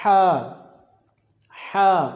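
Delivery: ہا from the middle of the throat; throat letter demo. Shown as a demonstration. Teacher demonstrating the throat letter ہا. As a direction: breathe out ہا from the throat. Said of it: "آگے کرتے ہیں start".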